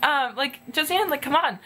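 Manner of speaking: high, eager call to a friend; excited calling. Retold or imitated. Calling Josie Ann over to meet Rebecca, high and eager. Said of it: "then I was like".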